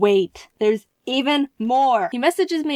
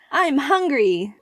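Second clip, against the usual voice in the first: deadpan slogan; 3 semitones higher, slower than usual. Retold or imitated. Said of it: "So I suggested".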